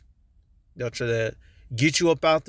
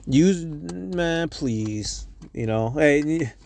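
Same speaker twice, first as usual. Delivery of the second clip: tripping over false starts; real stuttering; much slower than usual. Real, not acted. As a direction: break off and restart, losing the words. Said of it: "I'm stuttering".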